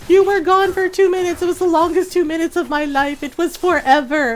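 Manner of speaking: high, loud, dramatic dog voice; overexcited dog. Retold or imitated. Dog to owner back from taking out trash, overwrought. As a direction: wail it like a dog reunited with its owner. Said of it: "happy barking at me".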